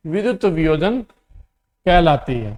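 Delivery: slow, deliberate dictation pace. Shown as a demonstration. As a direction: spell it out slowly for the copies. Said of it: "teacher dictates definition". (धीमी गति से लिखवाना)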